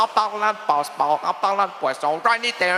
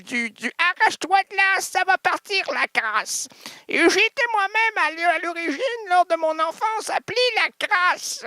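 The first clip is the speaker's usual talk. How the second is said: normal talking voice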